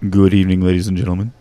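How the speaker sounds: loud booming villain greeting; booming echoing villain monologue. Acted. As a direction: boom it out like a horror host. Band member's spooky stage greeting.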